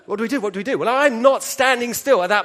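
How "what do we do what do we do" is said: panicked question. Retold or imitated. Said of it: "and I'm like".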